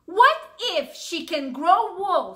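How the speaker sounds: a fretful sheep asking slowly; worried sheep. Acted. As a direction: fret like a nervous sheep. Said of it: "said Sheep".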